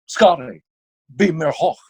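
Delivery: lightly voiced starship captain in German; halting German line with a pause after the name; Bill Shatner. Shown as a demonstration. Demonstrating a dubbed captain for the host, light impression. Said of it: "trying to do Bill Shatner".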